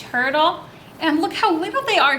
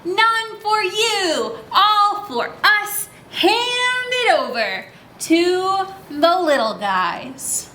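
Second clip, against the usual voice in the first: higher, slow, taunting bully voice; greedy little bullies; 5 semitones higher, much slower than usual. Acted. Teacher voicing the greedy little guys to the kids, in a slow taunting high voice. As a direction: drag it out like a gloating little gang.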